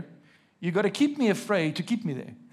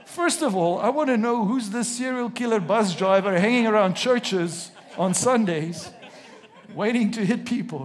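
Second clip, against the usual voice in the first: laughing; 3 semitones higher, 5 dB louder than usual. Real, not acted. Joking about the bus driver.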